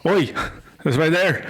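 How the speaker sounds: lightly put-on Irish accent. Irishman shows a kid the bird poop, light Irish accent. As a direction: answer as a mock Irishman. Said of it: "Mister Irishman".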